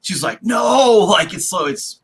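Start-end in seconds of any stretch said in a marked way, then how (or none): 0.4-1.0 drawn-out, louder, higher no; mock anguished cry. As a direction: act a slow-motion movie scream. Acting sister's slow-motion scream.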